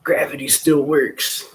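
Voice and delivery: high, slow goofy voice; silly high-pitched mock wonder; goofball. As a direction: pitch it way up and drag it out. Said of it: "why I'm being a goofball".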